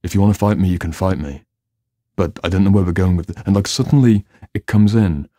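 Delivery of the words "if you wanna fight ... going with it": louder, firm challenge to an aggressive client; matching their energy. Retold or imitated. Therapist meets an aggressive client's energy with a louder challenge. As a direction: push back, meet them head-on. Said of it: "I can match that energy and be like".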